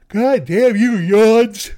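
mock dramatic curse.

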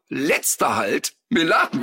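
slow parody of a tram announcer; imitating students mimicking the announcer; students' mock announcement. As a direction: call it out slowly like a stop announcement. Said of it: "riefen alle mal".

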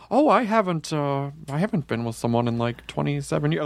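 casual, offhand retold admission; nonchalant. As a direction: blurt it out as if it's nothing. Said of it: "blurted it out very nonchalantly".

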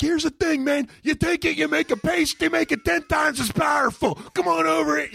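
hammed-up TV infomercial host; infomercial pitchman. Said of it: "I'll do an infomercial".

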